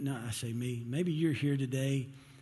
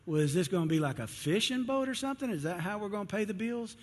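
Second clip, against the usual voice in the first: skeptical wife; 5 semitones higher than usual. Acted. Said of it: "she says".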